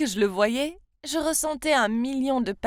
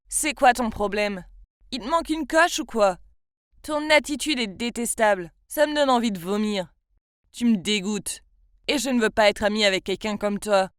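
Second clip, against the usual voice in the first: put-on boy scolding the bully in front of everyone, louder; angry telling-off; 3 dB louder than usual. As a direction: put the bully in her place.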